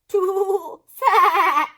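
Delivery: high laughing quip; laughing goat. Acted. Mister Goat laughs at Turkey's failed flight. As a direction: chuckle it out.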